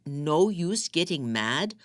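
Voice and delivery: slow, rising, disbelieving repeat; incredulous anger. Acted. Husband echoing her excuse in mounting rage, slow incredulous question. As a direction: drag the words out in disbelief.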